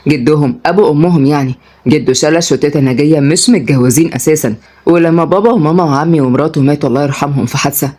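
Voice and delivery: low male voice, mildly exasperated; fed up. Acted. Brother explains the family tree, fed up. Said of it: "رد مراد بزهق".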